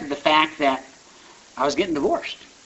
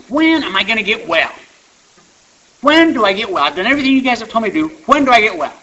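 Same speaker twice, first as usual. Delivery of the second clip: high, loud, pleading complaint; mock distraught wail; 8 semitones higher, 10 dB louder than usual. Newcomer demanding answers at his sponsor's house, mock distraught wail. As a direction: play up the desperate wail, much louder and higher. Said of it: "I can't quit crying".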